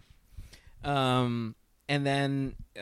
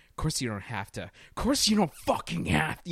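lightly voiced fed-up parent, building louder and higher; exasperated parent; 4 semitones higher, 3 dB louder than usual. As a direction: imitate a parent losing patience, rising to an outburst. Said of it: "it just sounds like a parent".

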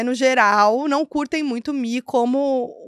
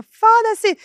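higher, louder mock shout from a passer-by; imitating a yell; 11 semitones higher, 6 dB louder than usual. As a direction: fling it back like the guy in the street. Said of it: "E aí o cara grita".

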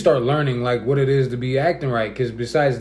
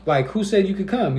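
aggressive; 6 semitones higher than usual. Retold or imitated. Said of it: "the way I was saying it was kinda, like, aggressive".

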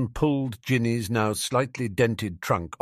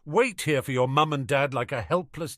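high, indignant mimicking rant; fuming, pitch well up; furious; 7 semitones higher than usual. A narrator's reading. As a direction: throw the words back in outrage. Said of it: "furious Ginny Weasley".

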